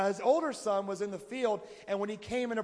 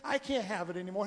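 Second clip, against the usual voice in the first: loud and higher, pleading outcry; loud protest to God; 6 semitones higher, 5 dB louder than usual. Retold or imitated. Believer refusing God's promise, loud protest. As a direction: throw the words up at God in protest. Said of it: "We try to say".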